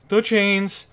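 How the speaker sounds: startled yell of recognition; frightened cry. Real, not acted. Player hears the chains in a horror game, frightened shout.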